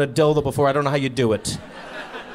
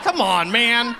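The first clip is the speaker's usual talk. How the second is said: pleading; 9 semitones higher than usual. Retold or imitated. Pleading with the creepy clerk.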